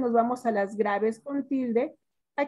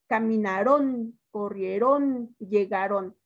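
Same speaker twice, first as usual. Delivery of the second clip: slow verb list; 2 semitones lower, slower than usual. Shown as a demonstration. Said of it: "Ah, pues esta regla sí me la aprendí".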